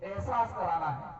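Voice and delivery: forceful public oratory in punched phrases; political rally speech. Real, not acted. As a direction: address the crowd with declamatory force, pausing after phrases. (चुनावी सभा का जोशीला भाषण)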